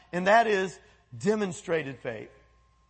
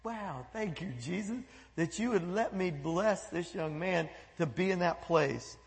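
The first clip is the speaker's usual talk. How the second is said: quiet prayer; 2 semitones lower, 7 dB quieter than usual. Retold or imitated. Retold prayer driving home.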